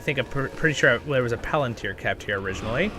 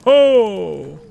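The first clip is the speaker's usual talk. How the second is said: high, loud dwarf cheer imitation; 8 semitones higher, 9 dB louder than usual. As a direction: shout it like a game dwarf. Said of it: "That's the dwarf one".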